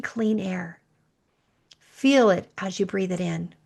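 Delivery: calm guide through the breathing; guided meditation. Acted. Leads a breathing visualization.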